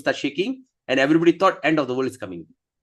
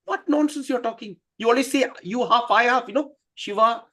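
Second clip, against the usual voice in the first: flustered excuse; 7 semitones higher than usual. Acted. Shiva defends himself to wife.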